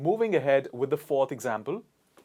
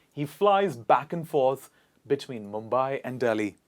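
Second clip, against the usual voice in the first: clear model sentence. Shown as a demonstration. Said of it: "allow me to say the sentence clearly".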